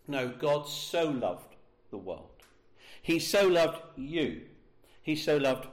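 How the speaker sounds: slow emphatic "so loved"; stress on so. Acted. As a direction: hit "so" hard, slowly, to show the intensity. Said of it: "talks about the intensity of God's love".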